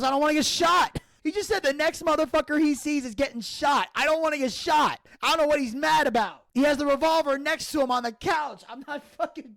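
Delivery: high and frantic, scared of getting shot; panicked. Retold or imitated. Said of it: "I panicked".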